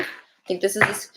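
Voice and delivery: talking through the hiccups; hiccuping mid-sentence. Real, not acted. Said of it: "I don't know why I have the hiccups".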